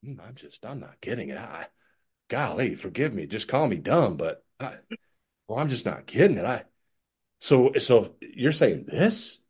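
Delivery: soft, hesitant, confused voice, trailing off; playing dumb. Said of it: "then I play stupid".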